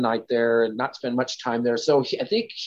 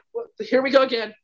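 much higher, exasperated dread; dismayed disbelief; 9 semitones higher than usual. Retold or imitated. Girl realizing danger again, high dismayed disbelief. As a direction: voice the sinking here-we-go-again.

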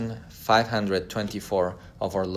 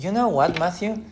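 playful pleading wife. Retold or imitated. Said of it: "She's like".

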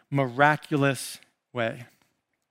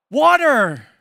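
dramatic reveal; 8 semitones higher, 6 dB louder than usual. Acted.

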